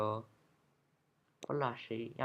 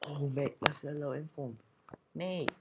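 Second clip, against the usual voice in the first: excited; 2 semitones higher, 5 dB louder than usual. Real, not acted. Pulls a great card in a pack.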